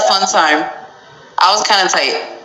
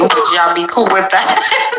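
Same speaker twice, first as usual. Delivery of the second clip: breaking into a laugh; can't keep a straight face. Real, not acted. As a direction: ask it while trying not to laugh. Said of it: "I can't even say that with straight face".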